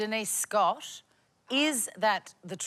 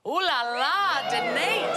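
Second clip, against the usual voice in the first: teasing ooh la la; 3 semitones higher than usual. Real, not acted. Host teasing over the negligee.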